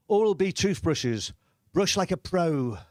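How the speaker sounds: slow, measured slogan read; lightly put-on advert voice; advert voice-over. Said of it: "and it said".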